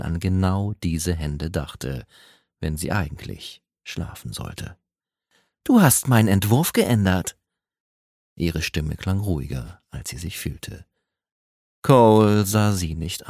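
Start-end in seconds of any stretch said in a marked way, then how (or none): 5.6-7.4 sharp accusing line, a bit higher. Acted. Woman confronts colleague over altered draft, accusing. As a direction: confront him with the change.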